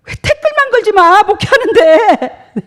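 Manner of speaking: high, laughing mock complaint; wife laughing while teasing her husband; laughing jab. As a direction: giggle through the teasing. Wife's joke, laughing.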